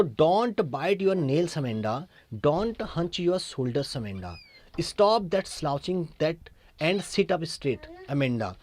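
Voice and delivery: very slow, drawn-out poem reading; stretched-out classroom recitation; poem recital. Acted. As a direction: read each line slowly for the class. Teacher reads the Amanda poem aloud.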